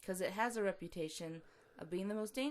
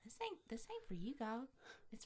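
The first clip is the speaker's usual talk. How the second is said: whispering; 3 semitones higher, 7 dB quieter than usual. Pretend. Whispering to the god.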